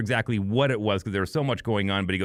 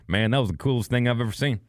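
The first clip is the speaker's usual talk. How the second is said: put-on a touch of a southern accent on the quote; 3 semitones higher than usual. Roadie at the bar praising a ticket giveaway, light southern accent. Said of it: "in this southern accent".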